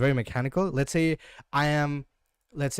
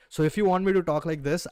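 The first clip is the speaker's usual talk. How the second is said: higher, louder Hindi-accented English; 4 semitones higher, 4 dB louder than usual. Shown as a demonstration. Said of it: "So I learned Hindi accent".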